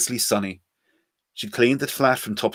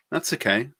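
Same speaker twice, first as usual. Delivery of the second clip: smiling; 3 semitones higher than usual. Acted. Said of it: "she said, smiling".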